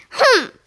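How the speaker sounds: loud, high acted "humph"; pig's grunt. A narrator's reading. Marvin the pig answering Nick, grunted humph. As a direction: grunt it out as a word. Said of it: "Marvin grunted".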